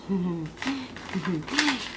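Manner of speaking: low closed-mouth chuckle; soft, dark little laugh; bitter chuckle. Acted. Cassandra wronged by Apollo, low bitter chuckle.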